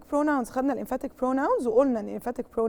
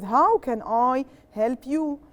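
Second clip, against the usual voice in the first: slow model answer; much slower than usual. Shown as a demonstration. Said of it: "So what do I start with?".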